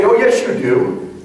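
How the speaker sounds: slow, knowing reply; knowing tease. Retold or imitated. A coach claims ignorance, he answers slowly and knowingly. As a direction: draw it out like you've caught them out.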